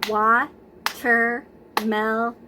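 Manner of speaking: Watermelon drawn out very slowly as WA-TER-ME-LON, beat on each; clapped syllables. Shown as a demonstration. Teacher clapping out Watermelon slowly with the class. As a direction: stretch Watermelon into four clapped beats. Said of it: "Let's clap out the syllables in watermelon".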